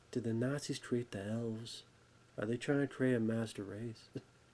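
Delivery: very soft, hushed murmur. Speaker reviewing a movie retells Dan Haggerty's line, soft Dan Haggerty voice. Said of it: "a very soft, su- you know, soft voice".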